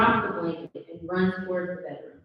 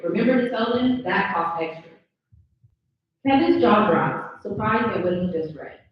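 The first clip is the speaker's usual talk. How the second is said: steady table-read narration of the action; reading stage directions. A narrator's reading.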